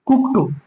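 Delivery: कुक्ड with a released T ending; correct pronunciation. Shown as a demonstration. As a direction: finish कुक्ड on T, not D. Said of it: "इस तरीके से बोलेंगे". (कुक्ड के अंत में 'ट' की आवाज़)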